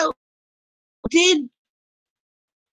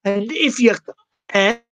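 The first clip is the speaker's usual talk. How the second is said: put-on Aussie accent. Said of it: "I don't know why I'm doing this accent".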